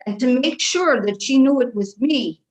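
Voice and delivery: light Irish brogue held throughout; Irish accent. Acted. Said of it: "I love your accent".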